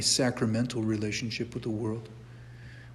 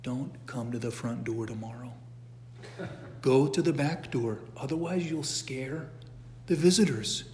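softly voiced saint cautioning a bear; quietly instruct, with measured pauses; calm instruction; 5 dB quieter than usual. Saint warning a bear away from visitors, calm instruction. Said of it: "he told the bear".

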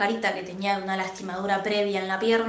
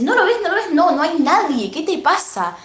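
high, loud panicked insisting; frightened pleading; 6 semitones higher, 3 dB louder than usual. Retold or imitated. Terrified schoolgirl urging the narrator to look, high panicked pleading. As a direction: voice the terrified girl begging her to look. Frightened girl points at empty stall.

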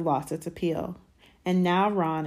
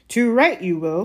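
loud, higher-pitched forceful retort; 5 semitones higher, 9 dB louder than usual. A narrator's reading. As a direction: come down hard on the boy. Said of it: "said Uncle Vernon forcefully".

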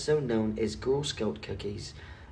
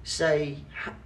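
mock British pub talk, pitched higher; a higher put-on English voice, reminiscing; British accent; 6 semitones higher than usual. Telling his friend about the tavern: higher mock British accent. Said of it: "different English accents".

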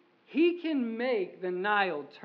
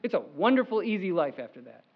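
mock false promise; 2 semitones lower, 3 dB louder, faster than usual. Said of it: "It's not".

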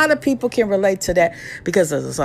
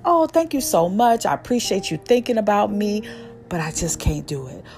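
polite refusal. Shown as a demonstration. Showing listeners how to decline an invitation, polite. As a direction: thank them courteously before turning them down. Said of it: "you could be polite about it".

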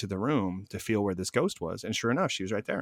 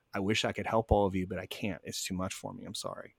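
fading, softer apology to the spirits; a quiet prayer to trapped souls, fading away; 2 semitones lower, 6 dB quieter than usual. Retold or imitated. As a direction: murmur it like a private prayer. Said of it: "I literally kinda said a prayer".

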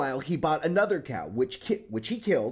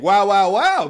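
mimicking a bark; 7 dB louder than usual. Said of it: "is what you're saying".

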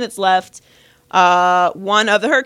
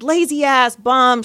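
mildly raised heckler's insults; retold yelling; 3 semitones higher, slower than usual. Woman keeps insulting the injured kid, mild mock yell. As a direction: imitate a heckler, voice slightly raised. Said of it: "she keeps yelling".

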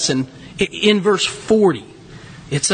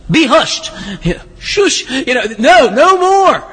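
rebuking the storm; 2 semitones higher than usual. Retold or imitated. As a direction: command the sea to hush. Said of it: "rebuked the wind".

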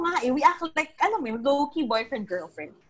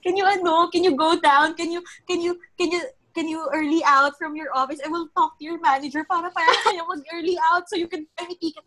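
higher, urgent begging through tears; tearful begging; 5 semitones higher than usual. Retold or imitated. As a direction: plead with him to leave work now. Crying, begging friend to come. (nagmamakaawang pakiusap habang umiiyak)

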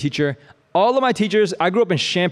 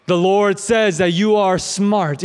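intense prophetic word; 4 semitones higher, 4 dB louder than usual. Pretend. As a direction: ham up a dramatic word from the Lord. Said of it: "you don't have to make it so intense like that".

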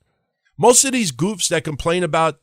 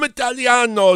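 put-on playful Italian accent; 7 semitones higher than usual. Host explains his own background, playful Italian accent.

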